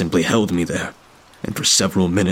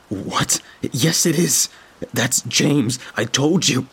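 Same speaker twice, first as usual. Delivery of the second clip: higher, hurried disbelief; urgent insistence; 6 semitones higher, slower than usual. A narrator's reading. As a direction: insist in rising alarm. Narrator insists it is James.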